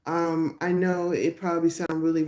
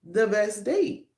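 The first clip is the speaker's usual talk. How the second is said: sudden realization; 4 semitones higher than usual. Retold or imitated. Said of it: "I said".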